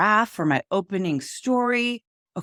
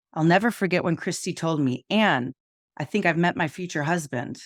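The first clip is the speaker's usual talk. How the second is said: flat monotone delivery. Shown as a demonstration. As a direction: read it flat with no feeling. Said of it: "Instead of saying in a monotone voice".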